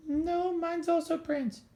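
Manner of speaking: very high, slow falsetto; squeaky little cell. Acted. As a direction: answer in a tiny, drawn-out squeak. Another cell answers in squeaky voice.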